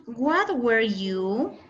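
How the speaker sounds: very slow, each English word set apart; slow teacher modelling of English; slow model phrase. Shown as a demonstration. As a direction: spell the phrase out for students. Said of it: "qué podríamos decir con what".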